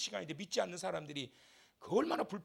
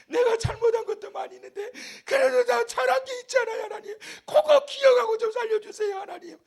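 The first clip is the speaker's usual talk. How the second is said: high, loud desperate bargaining; anguished king crying for his life; pleading king; 11 dB louder than usual. Acted. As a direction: beg God to remember the good. Hezekiah's plea acted.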